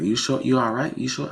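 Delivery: a mild imitation of a caring bystander; concerned stranger. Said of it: "He's like".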